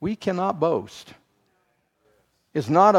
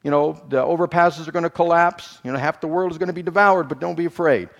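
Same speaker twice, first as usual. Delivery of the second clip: mock warning; 3 semitones higher, faster than usual. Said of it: "It'd be like me standing up here saying".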